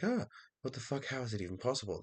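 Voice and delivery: high-pitched imitation of a shocked shriek; mock startled scream. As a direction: act out someone screaming in disbelief, without full force. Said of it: "they screamed like".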